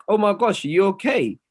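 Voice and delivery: mock incredulous scold; mock shocked voice. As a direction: ham up the outraged reaction. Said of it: "I'm like".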